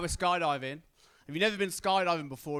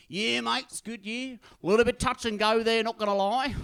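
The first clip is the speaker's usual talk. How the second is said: higher, offhand admission; mock casual instructor; 5 semitones higher, 5 dB louder than usual. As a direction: toss off the scary news casually. Instructor admits close call.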